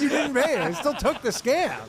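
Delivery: high mock-whine, slowed down; mock retelling. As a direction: mimic the friend's whiny protest. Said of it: "you're like".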